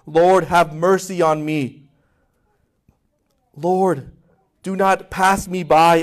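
slow, earnest pleading, held back; a lightly voiced desperate mother, slow; imploring woman. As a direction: plead slowly, lingering on each cry. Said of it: "She continues imploring him".

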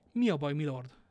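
loud, urgent narrated question; alarmed question. A narrator's reading. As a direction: call out in concern. Alarmed companion asks after a cry.

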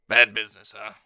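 a hint of a shady gnome; lightly voiced sly dealer; Greasy Sal voice. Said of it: "he looks over to you and says".

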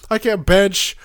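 high, loud exasperated complaint; exasperated rant. Real, not acted. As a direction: vent in loud disbelief. Exasperated rant about crowded gym.

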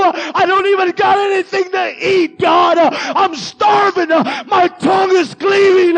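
a loud, shouted plea, pitch rising; Elijah's frightened prayer. Retold or imitated. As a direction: cry out to God, scared and starving. Elijah praying in fear.

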